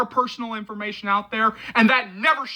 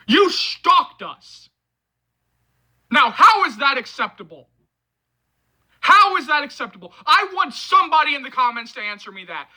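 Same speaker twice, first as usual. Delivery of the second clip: raised, strained yelling at the stalker; angry yelling; 3 semitones higher than usual. Real, not acted. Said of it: "my yelling, and my blown voice".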